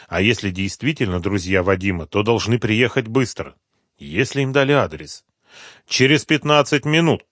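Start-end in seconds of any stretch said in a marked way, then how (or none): 5.9-7.2 lightly voiced caller, higher; quick promise over the phone; a hint of the friendly caller. A narrator's reading. Caller answers.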